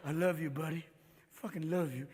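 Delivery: put-on low-key, loving drunk buddy; mock-tender declaration, a touch soft; affectionate drunk. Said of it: "we're moody little fuckers".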